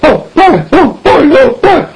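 high, rising squeals of delight; thrilled little boy. Acted. Son thrilled at father's approval.

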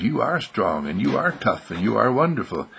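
gentle, measured confirmation; reassuring affirmation. Acted. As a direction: affirm each virtue kindly, without force. Wesley affirms Arnold's words back.

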